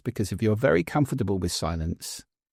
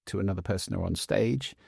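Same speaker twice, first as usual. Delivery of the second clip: normal talking voice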